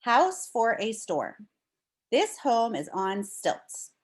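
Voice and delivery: clear, expressive read-aloud voice; reading to children. Acted. Teacher reading a storm book to her class, storybook read-aloud.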